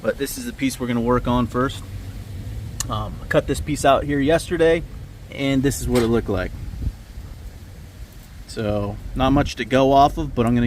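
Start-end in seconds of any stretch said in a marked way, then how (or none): 0.0-6.5 wind on mic. Real, not acted. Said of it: "So excuse the wind noise".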